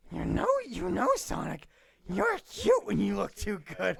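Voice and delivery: put-on sultry flirting; lightly hammed seductive voice; flirty Ahsoka voice.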